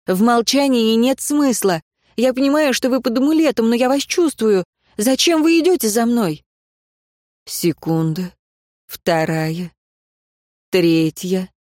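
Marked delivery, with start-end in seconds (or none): 0.0-6.4 firm challenge. Acted. Demanding the watcher show himself.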